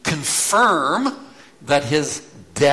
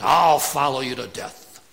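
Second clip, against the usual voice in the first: boastful Peter; 5 dB louder than usual. Retold or imitated. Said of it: "Puff out your chest when you say this".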